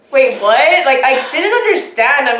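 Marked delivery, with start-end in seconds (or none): 0.1-0.8 mildly startled, confused question; retold confusion. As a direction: replay a baffled reaction, lightly. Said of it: "I was really confused".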